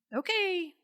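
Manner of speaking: high, sceptical okay; retold doubtful okay; wary agreement. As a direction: pitch it up, not convinced. Retold wary thought facing wife.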